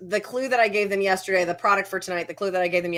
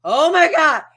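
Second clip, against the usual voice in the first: higher, louder imitated gasp of surprise; mock amazement; 7 semitones higher, 8 dB louder, slower than usual. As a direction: act out being floored. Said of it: "And I'm like".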